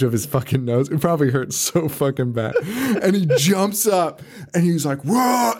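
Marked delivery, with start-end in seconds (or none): 5.0-5.5 sudden high mock yell of surprise; high-pitched imitated whoa; retold scream. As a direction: yelp it like a startled drunk jumping up. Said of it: "like, screams".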